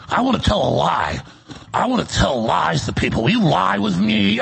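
lightly cartoonish voice; a hint of a cartoon schemer, slowing on the last line; cartoon liar. Host parodies himself coaching guests to lie, cartoonish. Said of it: "cartoon, like".

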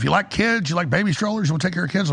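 lightly voiced coaxing relatives; mock coaxing family. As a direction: sell the idea of babies sweetly. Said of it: "She's like".

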